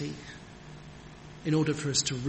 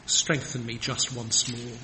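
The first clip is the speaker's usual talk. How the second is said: humble plea; 4 semitones lower, slower than usual. Retold or imitated. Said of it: "He cries".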